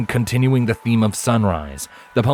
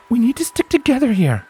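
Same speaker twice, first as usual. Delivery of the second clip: higher mare's voice, a touch stern; Scarlet, worried. A narrator's reading. Scarlet objecting to Lens, with a frown. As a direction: warn him off the plan.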